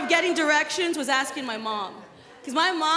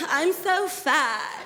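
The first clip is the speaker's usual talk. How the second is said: fishing for compliments; much slower than usual. Retold or imitated. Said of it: "I said".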